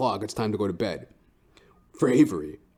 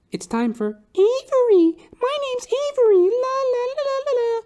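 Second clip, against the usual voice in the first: put-on little girl voice; 6 dB louder than usual. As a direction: play the little girl announcing herself. Voicing the little girl Avery.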